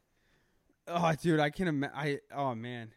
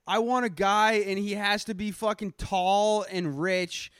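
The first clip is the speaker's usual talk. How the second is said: mock picky girl; 5 semitones higher than usual. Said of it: "The girl is like".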